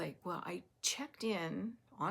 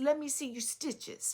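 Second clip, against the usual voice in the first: put-on heavy, thick Russian accent, pitched up; 8 semitones higher, 5 dB louder than usual. Retelling what a Russian lady asked about knitting: imitating a thick Russian accent. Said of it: "had a very thick accent".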